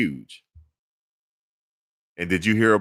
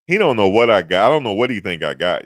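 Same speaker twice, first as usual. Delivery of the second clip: much louder, emphatic rant; loud exclamation; 2 semitones higher, 8 dB louder than usual. Real, not acted. Streamer ranting to chat about a stranger, loud. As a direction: blurt it out, amused and loud.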